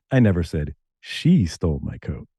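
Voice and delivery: single out "she" as if it was someone else; stress on SHE. Retold or imitated. Radio DJ shows how meaning shifts, stress on SHE. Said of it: "how I said them".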